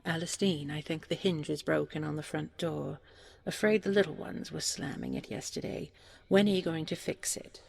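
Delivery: put-on older brother raising his voice over crying children; calling out. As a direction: call it over the din to Alistine. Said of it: "the eldest brother merely cried out".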